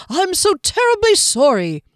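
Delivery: halfling cry. Acted. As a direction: squeal an apology like a tumbling little halfling. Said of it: "its muffled cries of".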